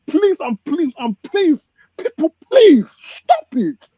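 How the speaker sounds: pleading passionately with the people to stop it; impassioned plea. Real, not acted. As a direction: pour out real pain for the homeland, building to a cry. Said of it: "the speaker doesn't put on an act".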